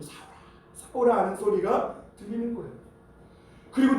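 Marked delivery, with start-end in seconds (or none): 0.0-1.2 mildly grieved, chiding call; understated divine reproach, pausing between the two calls; sorrowful reproach. Acted. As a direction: call the name twice with a touch of sad rebuke. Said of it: "어떻게 보면 책망하시는 소리".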